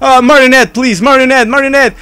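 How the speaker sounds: high, urgent repeated begging; panicked pleading. Real, not acted. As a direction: plead frantically with the monster. Pleading with game enemy.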